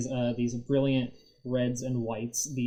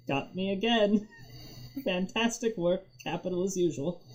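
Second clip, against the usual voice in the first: forced cheer; 8 semitones higher than usual. Acted. Soaked goblin forcing cheer.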